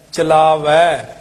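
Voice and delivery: ਚਲਾਵੈ slow, with open -vai; correct -ai ending. Shown as a demonstration. Teacher correcting the reading, slow ਚਲਾਵੈ with open -ai. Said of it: "ਭਾਵੇਂ ਦਲਾਈਆਂ ਤੇ ਵੈ".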